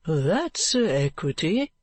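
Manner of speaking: slow, hesitant explanation; a little at a loss. Acted. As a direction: explain it slowly, a bit at a loss. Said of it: "a little at a loss".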